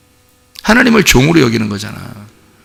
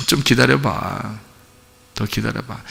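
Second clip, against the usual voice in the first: slow, trailing softly downward; quiet, forbearing plea; patient coaxing; 3 semitones lower, 6 dB quieter, slower than usual. Acted. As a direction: gently ask for patience, dropping softer. God asking the child to wait.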